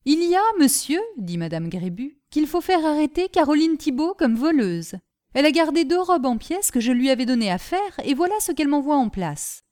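indignant complaint to the mayor; mild accusation. Acted. Grébu accuses Caroline. (madame Grébu accuse, indignée)

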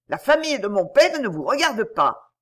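s'écrier avec colère, un peu plus fort; répliquer sèchement, vexé. Acted. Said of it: "s'écria Billy avec colère". (colère de mulet vexé)

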